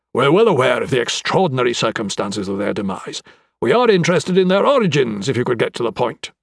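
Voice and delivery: mildly impatient official. Acted. High Sheriff hurrying the rambling anatomist, mildly impatient. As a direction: press him to get on with it. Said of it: "The High Sheriff was growing impatient".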